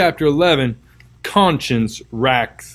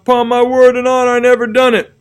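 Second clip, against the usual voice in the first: high, louder pleading through tears; sobbing plea; 10 semitones higher, 5 dB louder than usual. Acted. Accused Potter swears his innocence to the crowd, high tearful plea. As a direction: beg them to believe him. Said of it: "he sobbed".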